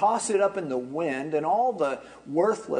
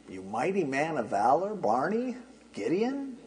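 mock puzzled greeting. Preacher teasing the congregation, puzzled mock greeting. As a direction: act like you can't find the man meant.

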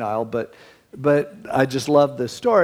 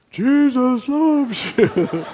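laughing through it; 10 semitones higher, 4 dB louder, much slower than usual. Real, not acted. Retelling the punchline, laughing.

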